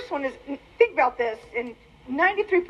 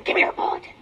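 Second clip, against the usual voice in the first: whispered grab for the bulletin; whispering in church pew; hushed demand; faster than usual. Retold or imitated. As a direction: breathe it out under your breath. Grabbing husband's bulletin in church.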